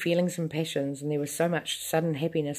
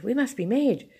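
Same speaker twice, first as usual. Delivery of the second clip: screaming; 7 semitones higher, 3 dB louder than usual. A narrator's reading. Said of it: "she screamed".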